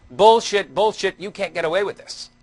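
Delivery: loud mock yell of an angry audience member, high at the start; retold scream. Angry heckler yelling at the young presenter, loud mock yell. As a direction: replay the heckler's outburst, loud on the first bullshit. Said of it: "The guy runs up screaming at me".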